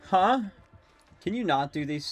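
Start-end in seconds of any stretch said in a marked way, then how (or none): 0.0-0.4 loud, high huh; startled huh. Real, not acted. Streamer baffled by the killer teleporting. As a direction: blurt it in confusion.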